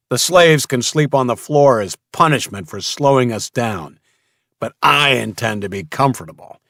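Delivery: commanding, arrogant boss; bossy gang leader. Acted. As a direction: bark orders, sure of yourself. Mason the slaver boss commands.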